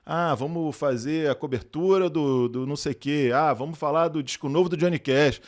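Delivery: mocking the people who kept asking him; mock eager invitations. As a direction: ham up their repeated requests. Mimics people inviting him repeatedly.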